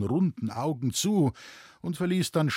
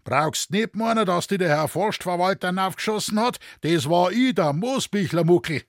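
loud, higher, hearty rural bellow; a proud forester roaring into the moonlit night; booming bass; 7 semitones higher, 5 dB louder than usual. Acted. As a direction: bellow it after the fleeing thief. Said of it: "erdröhnte Moosbichlers Bass".

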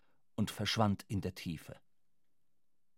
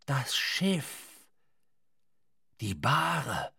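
Ahab crying out; 4 semitones higher, slower than usual. A narrator's reading. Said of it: "Schrie Ahab aus dem Boote".

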